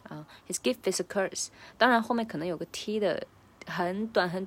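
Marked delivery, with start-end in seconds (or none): 0.5-1.5 "gift is" linked as "giff is"; "gift" with no T, run into "is"; swallowed T. Shown as a demonstration. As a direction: leave out the T of "gift". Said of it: "把gift的T给吞".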